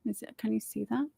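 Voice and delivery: quick whisper; whispering to the camera; whispered check. Real, not acted.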